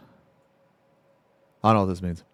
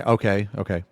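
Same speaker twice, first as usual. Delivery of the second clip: ordinary talk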